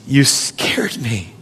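put-on a gentle parent calming a frightened child after the street; tender comforting. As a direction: hold the child close and soothe.

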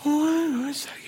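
high, rising astonished questions ending in a loud squeak; amazed disbelief. Retold or imitated. Home group reacting to the giant, high astonished disbelief. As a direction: act out the group's stunned reaction. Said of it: "they're like".

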